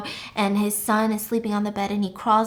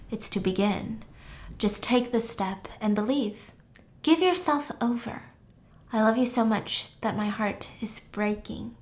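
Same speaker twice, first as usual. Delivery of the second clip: solemn guru speech. Acted. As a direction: speak gently to followers, with pauses. Plays Doctor Joseph's video speech.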